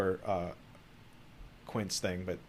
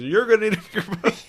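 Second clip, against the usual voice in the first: high, loud hammed-up Brody line; movie quote; 12 semitones higher, 7 dB louder than usual. Friends reenacting Jaws, a loud hammed-up Brody. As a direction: belt the famous line in a big mock voice.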